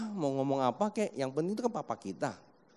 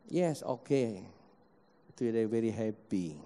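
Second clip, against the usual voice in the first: put-on elderly parent in English; 8 semitones lower, 4 dB quieter, slower than usual. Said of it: "kalau di rumah pakai bahasa Inggris".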